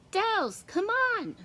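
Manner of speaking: yell. A narrator's reading. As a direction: hurry her up with a shout. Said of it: "Brandy yells".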